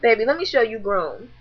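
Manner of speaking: cold calm. Retold or imitated. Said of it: "I just get real calm".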